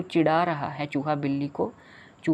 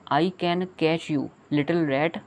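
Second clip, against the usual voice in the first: slow cat line; much slower than usual. Acted. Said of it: "said the cat".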